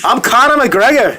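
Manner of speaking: put-on slow, high stage Irish accent; Conor McGregor. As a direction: announce yourself in a cocky Irish accent. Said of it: "interview you as Conor McGregor".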